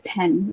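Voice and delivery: pen with a light puff of air after the p; slightly aspirated pen. Shown as a demonstration. Showing English pen has a slightly aspirated p. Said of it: "it's slightly aspirated".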